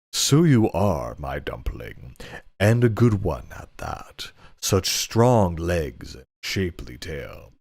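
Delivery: slow, leering master voice; lightly voiced lecherous lord; suggestive master. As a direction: draw it out like a sleazy nobleman. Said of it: "inappropriate voice I can muster".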